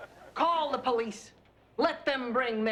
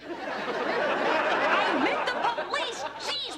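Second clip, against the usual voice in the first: put-on fed-up protester yelling at the old ladies; exasperated yell; 10 semitones higher, much slower than usual. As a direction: blow up at them, slowly. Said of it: "if you keep yelling like that".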